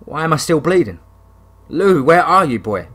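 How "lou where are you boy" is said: loud, high call for the dog; wounded hunter calls for his wolf. Acted. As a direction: call into the dark. Calling the lost dog.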